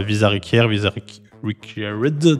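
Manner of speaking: English words with a French accent; halting French-accented English. Real, not acted. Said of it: "Désolé pour mon accent".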